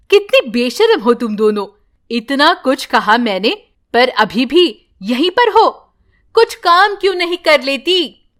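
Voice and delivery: a touch of scolding daughter-in-law; understated nagging scold; angry. Acted. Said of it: "वो गुस्से से कहती है".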